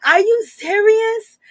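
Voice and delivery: stretched-out mock shock; incredulous disbelief. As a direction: ask it like you can't believe your ears. Incredulous reaction to his claim.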